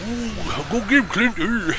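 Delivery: high, hammed-up Cajun accent. Imitating Swamp People Cajun for a friend. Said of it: "Remember Swamp People? ... when I think Cajun".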